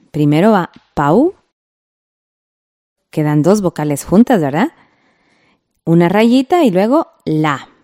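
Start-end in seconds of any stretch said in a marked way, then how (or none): none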